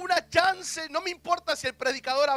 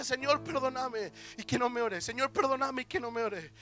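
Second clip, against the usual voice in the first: tearful prayer; 3 dB quieter than usual. Retold or imitated. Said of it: "yo lloraba y le decía".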